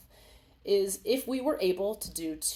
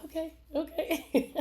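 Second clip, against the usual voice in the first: mock eager crier; 10 semitones higher than usual. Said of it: "You're like".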